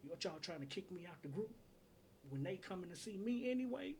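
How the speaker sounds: indignant retort, pitch climbing on each question; lightly voiced a soul singer. Kicked-out lead singer challenging his group, lightly imitated indignation. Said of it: "and he was like".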